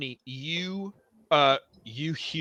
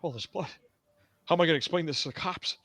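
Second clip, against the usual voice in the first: panicking bar owner; 2 semitones higher, 3 dB quieter, faster than usual. Acted. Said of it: "He's like".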